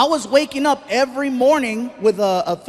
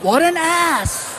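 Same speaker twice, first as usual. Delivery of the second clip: muttered insult; 5 semitones higher, much slower than usual. Retold or imitated. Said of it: "I was like".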